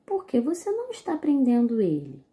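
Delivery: indignant question. Shown as a demonstration. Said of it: "Perceberam a entonação da leitura?".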